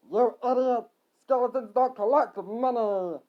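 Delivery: high, loud, drawn-out rebuke; yell. Acted. Skeleton scolding Harry as an idiot, yelling. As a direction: yell it slowly at the fool. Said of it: "a second one yelled".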